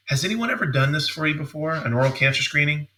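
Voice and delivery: casually implying superior care; implying question. Shown as a demonstration. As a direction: ask as if others may have skipped it. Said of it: "the tone of my voice".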